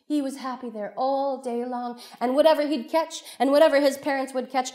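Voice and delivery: animated oral storytelling; lively storyteller narration. Acted. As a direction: draw listeners into the tale. Tells story to audience.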